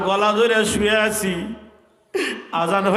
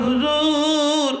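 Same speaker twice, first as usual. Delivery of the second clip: whispered in ear; 6 semitones higher, slower than usual. Acted. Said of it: "আমারে কানে কানে কয়".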